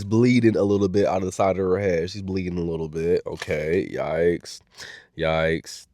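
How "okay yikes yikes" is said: quiet yikes. Real, not acted. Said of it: "reacting to bleeding".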